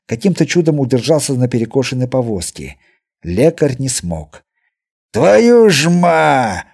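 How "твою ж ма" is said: loud, high, drawn-out cry as he falls; a healer tumbling from a cart howls; howled curse. A narrator's reading. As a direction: wail the curse out in dismay. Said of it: "в сердцах взвыл".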